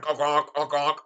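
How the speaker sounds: short playful honks, mimicking a squeaky horn; vocal horn honking; squeaky horn imitation. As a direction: honk like a little bike horn. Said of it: "a little squeaky horn".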